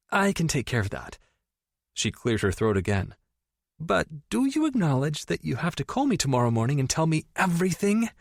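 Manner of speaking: overexcited friend teasing about the stepbrother; gushing best friend. Acted. Tori businesslike.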